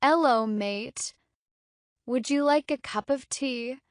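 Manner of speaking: playful British accent with a dropped H; lightly put-on British accent. Shown as a demonstration. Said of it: "A British accent".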